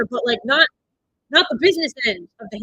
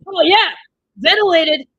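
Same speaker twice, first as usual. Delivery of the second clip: excited cheer; 6 semitones higher, 9 dB louder, slower than usual. Real, not acted. Cheering a kill on screen.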